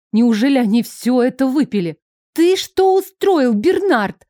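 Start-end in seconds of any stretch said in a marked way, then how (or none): 2.3-4.2 high, loud exclamation; exclaiming. A narrator's reading. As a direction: call him out sharply. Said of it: "воскликнула София".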